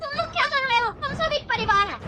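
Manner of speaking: high-pitched, upset protest; distressed pleading. Acted. Stopping relatives fighting as one family, distressed pleading.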